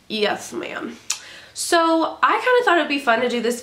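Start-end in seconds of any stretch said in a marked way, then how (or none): 0.1-1.0 whispered. Pretend. Whispered repeat.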